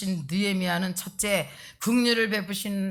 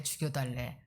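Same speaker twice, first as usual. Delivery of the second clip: trailing mock demand; 6 semitones lower, 8 dB quieter than usual. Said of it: "막".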